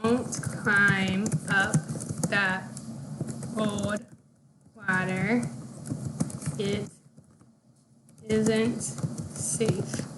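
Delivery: slow and soft, a little worried; worried warning, slow. Shown as a demonstration. Teacher to kids, worried slow warning. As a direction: say it slowly like you fear for them. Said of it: "I would say".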